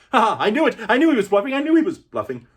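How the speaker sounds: high and loud, crowing; gleeful shout. Acted. Prince crows loudly that Wesley was bluffing. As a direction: gloat at the top of your voice.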